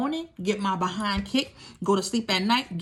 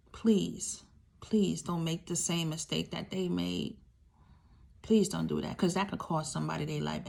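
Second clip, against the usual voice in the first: earnest plea; 2 semitones lower, 6 dB quieter than usual. Real, not acted. Pleading to pastors.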